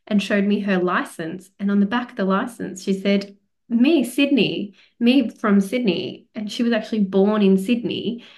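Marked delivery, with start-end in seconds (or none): 3.7-6.2 slow, careful broken English; basic English. Retold or imitated. Imitating the Bosnian waitress showing her licence, slow and halting. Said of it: "her English was basic".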